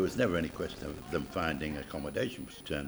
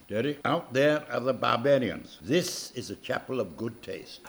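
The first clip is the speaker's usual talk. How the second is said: booming Welsh voice; 4 semitones higher, 4 dB louder than usual. Retold or imitated. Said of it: "he had a booming Welsh voice".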